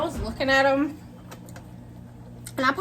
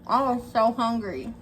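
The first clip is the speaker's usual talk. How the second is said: talking with mouth full; chewing chicken between words; eating crunchy fried chicken. Real, not acted. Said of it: "I'm gonna take a bite of my chicken".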